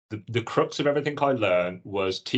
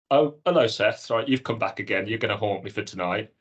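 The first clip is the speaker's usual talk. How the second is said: welcoming an unwanted visitor. Retold or imitated. Greets his alter ego Seth.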